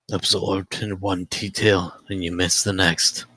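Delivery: sly gambler character voice; lightly voiced cool gambler; Gambler Black voice. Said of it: "Feels good to use my Gambler Black voice".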